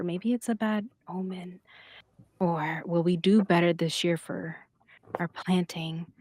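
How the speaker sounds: hushed, halting murmur of worried parents; worried whisper. Acted. Parents wondering about a bad omen, hushed worried whisper. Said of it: "Some of the parents whisper".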